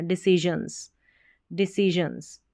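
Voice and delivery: डिसीजंस, careful zh sound; correct reading. Shown as a demonstration. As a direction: say डिसीजंस with the middle like the s in vision. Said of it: "ज sound आएगा".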